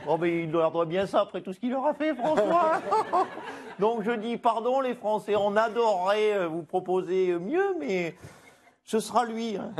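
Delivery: lightly voiced Ségolène Royal; a hint of Royal's sweet voice; Ségolène Royal impression. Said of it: "Bonjour Ségolène Royal".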